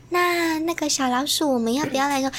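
hushed tender voice so as not to disturb others; gentle coaxing voice. Retold or imitated. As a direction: sweet-talk a small kid gently. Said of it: "我就用这种声音跟他讲话".

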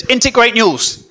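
lightly imitated northern English accent, slowed down; a touch of mock Huddersfield accent, slow. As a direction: imitate the Huddersfield fan, stretching the words. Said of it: "that is a very good Huddersfield accent".

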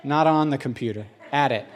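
"on" stressed then "at" stressed. Shown as a demonstration. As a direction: contrast "on" against "at". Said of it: "Prepositions matter".

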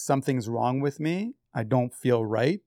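slow, halting quote of an unwell mom; understated complaint, drawn out; retold worry. Acts mother's complaint to father.

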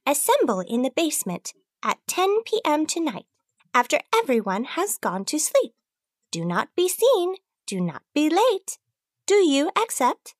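high, secretive briefing voice; mysterious messenger voice. Acted. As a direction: deliver the secret summons. Mysterious message giving orders.

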